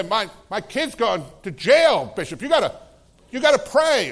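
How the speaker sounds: pushed, high mock desperate plea. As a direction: mimic a frantic parent pleading. Parents begging the bishop.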